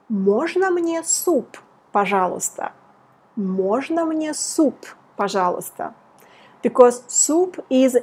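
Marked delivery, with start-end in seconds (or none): 0.1-2.7 slow model phrase. Shown as a demonstration. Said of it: "if you want to say". 3.4-5.9 slow model phrase. Shown as a demonstration. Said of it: "if you want to say".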